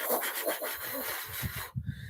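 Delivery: soft, voiceless stuttering noise; quiet rapid-fire mouth noise; imitated racing mind. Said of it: "my mind was like".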